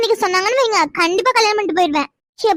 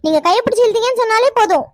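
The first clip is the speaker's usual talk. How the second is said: indignant retort; 3 semitones higher than usual. Acted. Girl retorts in a quarrel.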